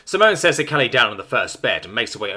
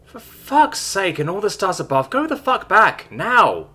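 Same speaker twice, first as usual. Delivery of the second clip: flustered stammer; 10 semitones higher than usual. A narrator's reading. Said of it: "she stammers".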